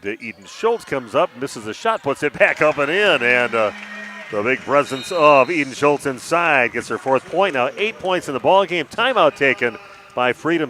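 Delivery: excited play-by-play. Real, not acted. Announcer calls the home side's basket to listeners, excited. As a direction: lift the voice as the shot drops.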